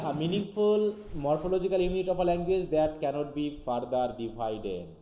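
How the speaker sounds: slow, deliberate reading of an English definition; dictating slowly to students; slow textbook reading. Acted. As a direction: read it out word by word for the class.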